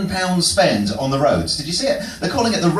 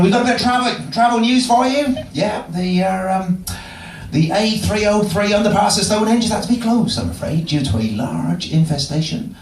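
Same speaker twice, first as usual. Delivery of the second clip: generic radio DJ; 3 semitones higher than usual. Pretend. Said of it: "with the generic voices for you".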